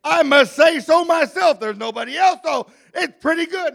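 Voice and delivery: lightly acted self-congratulating God; God pleased with himself. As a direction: play a mildly self-satisfied Creator. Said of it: "He says".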